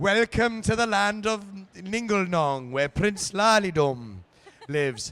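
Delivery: poor lilting Welsh accent. Speaker recalling how everyone talked while shooting a film, soft bad Welsh accent. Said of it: "soft, strange, non-Welshy, bad Welsh".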